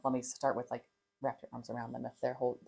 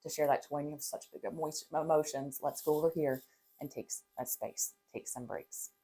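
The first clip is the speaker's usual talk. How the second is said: softer, trailing into a near whisper; calm mom guiding her child to a break; gentle calming parent; 3 dB quieter than usual. Shown as a demonstration. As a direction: soothe the child quietly. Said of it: "It's really".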